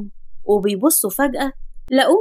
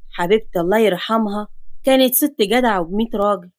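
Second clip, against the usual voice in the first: lightly voiced grandfather; 3 semitones lower than usual.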